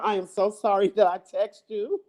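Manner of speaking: sorry, but cracking up; laughing apology. Real, not acted. Vlogger apologizing to Demetra for a text, trying not to laugh. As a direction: apologize through a giggle.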